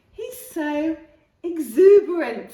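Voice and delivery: excited dad. A narrator's reading. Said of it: "said Dad".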